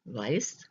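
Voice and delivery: "weiß" with an eye sound, vice; teacher models "weiß" for learners; demonstrated word. Shown as a demonstration. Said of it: "the diphthong E I".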